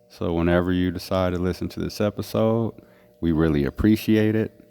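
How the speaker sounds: talking around a cigarette; cigarette in mouth. Real, not acted. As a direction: lips holding a cigarette. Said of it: "I have a cigarette in my mouth".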